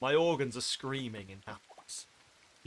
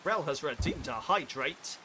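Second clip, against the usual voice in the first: odd announcement voice; 4 dB louder than usual. Pretend. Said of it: "I don't know why I said it like that".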